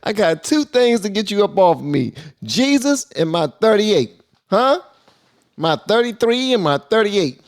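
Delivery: delighted, half-laughing repeat of the punchline; amused excited. Real, not acted. Repeats the clip's line, amused.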